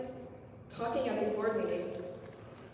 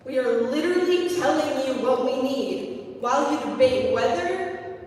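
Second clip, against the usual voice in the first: louder, rising passionate plea; impassioned pleading; 6 dB louder than usual. Real, not acted. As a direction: push harder until it's nearly a shout. Student pleads with board.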